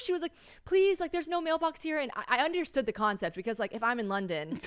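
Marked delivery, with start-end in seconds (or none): 0.7-2.0 high pleading voice, mock German accent; imitated German accent. Stranger begging help with mail, imitated German accent. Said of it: "she definitely had a thick accent".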